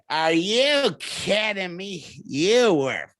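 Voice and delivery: slow, disgusted retort; incredulous, dragged-out put-down; mock outraged retort. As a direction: draw it out like an outraged old lady. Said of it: "She added an extra syllable to horrible".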